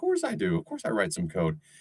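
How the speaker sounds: put-on student voice with swooping pitch, talking back. Acting out graduates answering back, imitating computer science students. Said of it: "the computer science kids are going".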